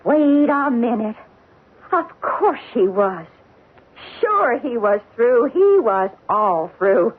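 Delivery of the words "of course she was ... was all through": slow, choked-up dawning; tearful realization. Acted. Maid realizing her employer was killed, tearful and slow. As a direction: voice catching as it dawns on her.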